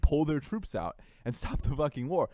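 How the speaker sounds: exasperated at Western pressure, getting angry; heated rant. Real, not acted. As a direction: rail against it, voice rising. Heated rant about Russia's invasion.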